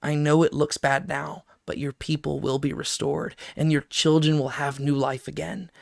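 soft, gentle consolation to a weeping mother; God comforting Rachel. Acted. God speaks softly to weeping Rachel, gentle comfort. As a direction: hush her tears softly. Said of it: "speaks to Rachel as she weeps and says".

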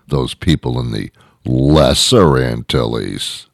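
slow, drawn-out scorn on the name; disdainful rich resident. Acted. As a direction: look down on them, stretching out LESSER. Rich residents scorn the lesser ones.

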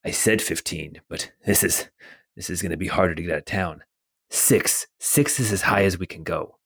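a hint of a low, quiet dealer pushing back; second haggler's voice. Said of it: "you hear a voice say".

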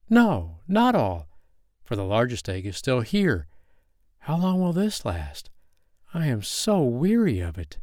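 mother duck, lightly voiced and weary. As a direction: sigh through it like a worn-out hen. Mother duck speaks while hatching.

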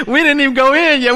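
high and loud, fast shout; preacher's shout. Real, not acted. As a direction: shout it out, still laughing inside. Shouting the point to the crowd.

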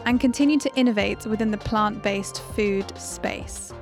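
upbeat host intro over music; podcast intro read. Acted. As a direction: read it like a show opener.

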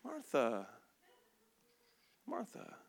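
soft, low calling of a name; hushed, soothing address; quiet, calming Jesus. Acted. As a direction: gently bring someone down. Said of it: "he kinda gets quiet".

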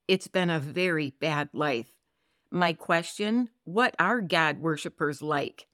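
earnest Bible reading to listeners; scripture reading. Acted. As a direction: read the psalm with steady devotion. Reads Psalm 25 aloud.

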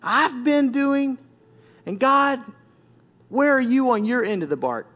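aggrieved challenge; ranting at God. Acted. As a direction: demand an answer, pausing between phrases. Acting out rant at God.

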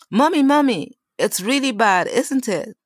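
a worried daughter running in; child's voice. Acted.

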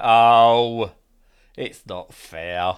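drawn-out whiny sigh; whiny complaint. Retold or imitated. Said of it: "you're just like".

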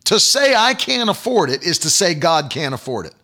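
ordinary talk

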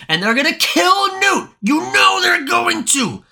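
building to a high frustrated shout; high-pitched furious yelling at the character; outraged rant. Real, not acted. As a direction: yell it like you can't believe it.

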